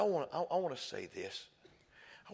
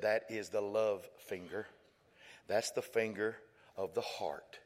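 slow tender explanation; slower than usual. Acted. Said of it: "slow and tender".

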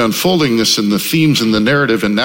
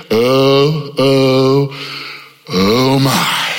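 hushed, lower awed "oh my"; awed gasp; 3 semitones lower, much slower than usual. Retold or imitated. Crowd awed at the heavens parting, hushed wonder. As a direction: breathe it out in wonder.

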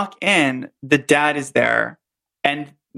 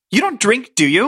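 Brenda reenactment; 5 semitones higher than usual. Acted. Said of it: "me and Robert are gonna reenact it".

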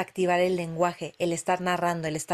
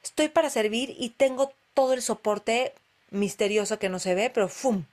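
epiphany; 3 semitones higher than usual. Retold or imitated. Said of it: "fue como un instante de".

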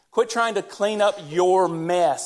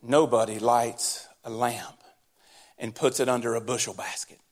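low, flat, droning Sunday-school reading; dry churchy monotone; flat dull reading; 8 semitones lower, 5 dB quieter than usual. Retold or imitated. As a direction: read it like a boring recitation. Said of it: "he didn't say it like this".

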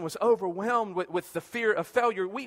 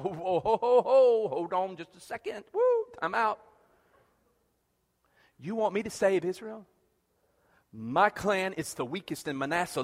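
startled Gideon. Retold or imitated. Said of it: "He's like".

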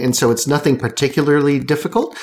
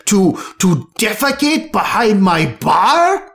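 a lightly voiced, outraged barkeep, a little higher; indignant barkeep; 5 semitones higher than usual. Alphonse scolds the cat for sneaking behind his bar, lightly indignant. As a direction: scold the intruder as the offended bar owner.

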